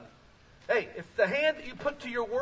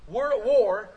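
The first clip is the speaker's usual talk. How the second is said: firm repeat; 7 dB louder than usual. Real, not acted. Preacher repeats the line.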